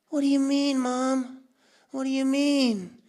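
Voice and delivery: high upset repetition; outraged kid. Retold or imitated. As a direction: plead with mom in disbelief. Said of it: "I was like".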